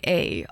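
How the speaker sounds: "a" said as the Canadian tag eh; short, low "a" as in eh. Shown as a demonstration. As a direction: drop a casual "a" like eh. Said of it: "I do say".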